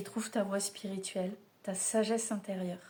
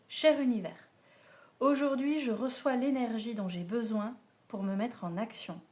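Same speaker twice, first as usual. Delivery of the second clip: affirmation lue; 2 semitones higher than usual. Acted. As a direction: proclaim it to the universe like an invocation. Reads affirmation card aloud. (lecture déclamée d'une affirmation)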